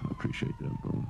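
squeaky break on thanks; voice cracking. Real, not acted. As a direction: voice cracks up high.

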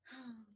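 soft, high sigh; small, unhappy sigh; deep little sigh. A narrator's reading. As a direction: sigh softly in a tiny voice. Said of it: "The little voice sighed deeply".

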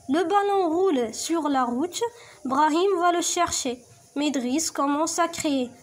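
slow, clear read-aloud; slow teacher reading; reading aloud to pupils. Shown as a demonstration. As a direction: read the text slowly for the class. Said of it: "تبعوا معايا".

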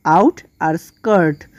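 আউট and স্কার্ট said as two separate syllables. Shown as a demonstration. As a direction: break it into আউট, then স্কার্ট. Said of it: "syllable ভাগ করলে". (আউট আর স্কার্ট, syllable ভাগ করে আলাদা আলাদা)

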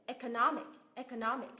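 "economic" with NOM stressed; stress before last syllable. Shown as a demonstration. Teacher drilling IC words, stress on NOM in "economic". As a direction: hit NOM, let "ic" fall away in "economic". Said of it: "nhấn vào âm tiết ngay trước đó".

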